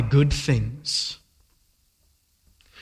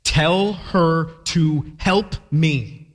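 very slow, deliberate demand; exasperated imperative; frustrated command; 2 semitones higher, much slower than usual. Retold or imitated. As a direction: spell out Martha's order word by word. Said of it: "This is an imperative".

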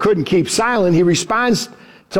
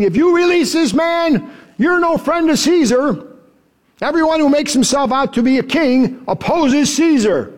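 raised, higher protesting crowd; crowd crying out; 6 semitones higher than usual. Retold or imitated. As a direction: call it out like an angry mob. The Jews cry out to Pilate.

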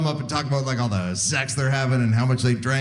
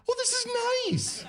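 high, soft, contented coo; dreamy hushed delight; blissful sigh; 6 dB quieter than usual. Retold or imitated. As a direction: melt into the comfort. Content on exam table.

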